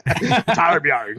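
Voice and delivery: a hint of a gruff dwarf; Torbjorn voice. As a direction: growl the name like a dwarf. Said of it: "All he can say is his, his name".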